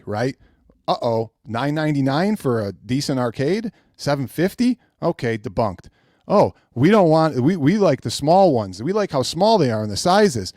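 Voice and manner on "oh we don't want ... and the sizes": mocking fans. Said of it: "fans' excuses mocked".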